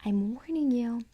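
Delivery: loud threatening repeat; repeated bellow. Acted. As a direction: warn them again, loud. Dummy repeats warning.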